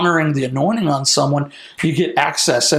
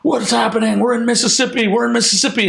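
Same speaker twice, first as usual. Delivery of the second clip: higher-pitched mild mock panic; half-voiced freak-out, pitched up; retold screaming; 7 semitones higher than usual. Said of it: "my friend in the back starts screaming".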